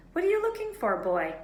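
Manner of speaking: put-on a high, sharp old librarian; suspicious librarian. A narrator's reading. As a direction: challenge the boy sharply.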